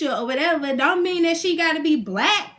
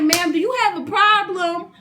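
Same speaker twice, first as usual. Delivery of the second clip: sassy retort; 3 semitones higher than usual. Retold or imitated. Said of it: "I'm like".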